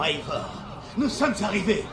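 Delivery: laughing softly. Acted. Reunion in the afterlife.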